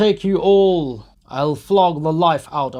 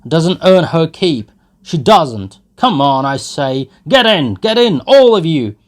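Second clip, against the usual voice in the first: loud, higher bragging rant; drunken boastful shouting; 7 semitones higher, 13 dB louder than usual. Acted. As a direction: brag and bellow at the lads. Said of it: "he shouted from the cart".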